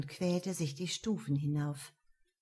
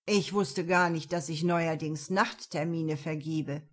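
mocking. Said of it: "Ein spöttischer Blick".

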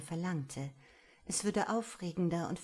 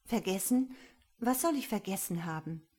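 erstaunte Nachfrage; 2 semitones higher than usual. Acted. Aurora fragt erstaunt nach.

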